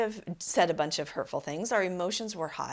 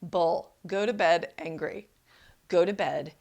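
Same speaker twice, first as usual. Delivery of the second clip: firm, louder contradiction; emphatic rebuttal; 4 dB louder than usual. Acted. Coach overruling the little voice in your head, emphatic. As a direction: push back firmly on the old advice. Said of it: "hear her voice saying to you".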